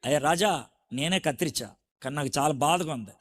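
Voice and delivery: bow your head and confess; humble sorrow. Acted. David humbly confesses to the king. (తగ్గిన స్వరంలో బాధతో వేడుకోలు)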